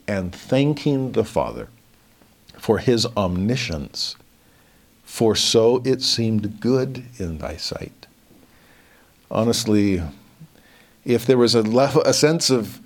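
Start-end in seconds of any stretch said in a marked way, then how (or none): 5.0-8.1 slow, weighty, each word placed; slow and deliberate. Shown as a demonstration. Verse repeated for emphasis.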